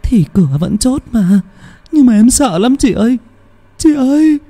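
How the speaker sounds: terrified younger sister pointing at the mother; panicked whimper. Acted. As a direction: plead like she's about to cry. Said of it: "Cái Linh cũng hốt hoảng".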